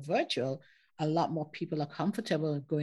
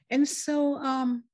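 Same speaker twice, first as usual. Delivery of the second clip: laughing; 6 semitones higher, 5 dB louder, slower than usual. Real, not acted. Laughing at own story.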